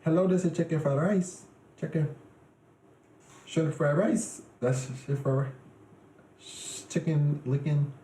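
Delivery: half-hearted attempt at an Asian accent; mock Asian accent. Shown as a demonstration. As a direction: fumble through a put-on Asian accent. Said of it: "damn, Asian accent is kinda hard".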